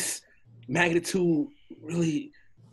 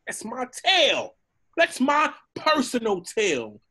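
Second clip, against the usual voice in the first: high-pitched protest; object, alarmed, to being grabbed; indignant alarm; 7 semitones higher than usual. Acted. Donkey to the dragon holding his tail, alarmed protest.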